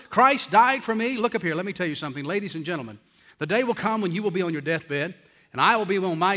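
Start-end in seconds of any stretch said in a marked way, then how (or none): 0.1-1.2 louder, higher, ending on a questioning rise; incredulous questioning. Retold or imitated. Congregant challenging the pastor over Spurgeon's last words, mock incredulous. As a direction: question it as a puzzled listener would. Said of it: "all he could come up with are three or four words".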